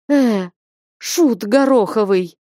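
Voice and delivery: fond, gentle mock scolding; kind, soft voice. A narrator's reading. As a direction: scold him with affection, softly. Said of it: "добрым, мягким голосом". (добродушно, мягко)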